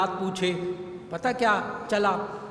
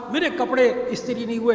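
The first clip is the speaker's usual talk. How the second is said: a touch of a raised mock yell; complaining father's half-shout over unironed clothes; retold shout; 3 semitones higher, 4 dB louder than usual. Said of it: "یہ باپ چیخ کر بولتا تھا".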